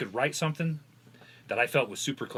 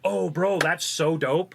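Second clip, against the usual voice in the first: louder, higher gushing imitation of excited kids; hyped-up kids; 7 semitones higher, 6 dB louder, slower than usual. Kids reacting to his buddy's rap, hyped and impressed. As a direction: mimic kids blown away by a verse.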